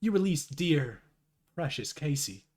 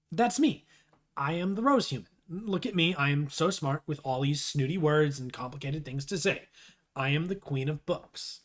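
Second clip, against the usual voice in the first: mock boasting. Posing as the Rose human, mock boasting. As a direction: pretend to be the snooty bookworm.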